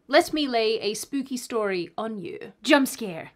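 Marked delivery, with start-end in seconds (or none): 2.6-3.3 sudden louder burst to startle; spring it on them like a jump scare; mock jump scare. Host pretending to scare viewers, sudden loud burst. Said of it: "I'm just kidding".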